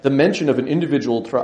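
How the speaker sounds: lecturer's mock German accent, first try; a hint of a German scholar. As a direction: leichter deutscher Akzent. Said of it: "I should do it in his German accent".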